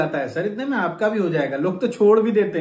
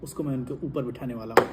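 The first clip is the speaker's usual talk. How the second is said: gloating tycoon villain; 3 semitones lower, 9 dB quieter than usual. Acted. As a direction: savour every boast like a movie villain.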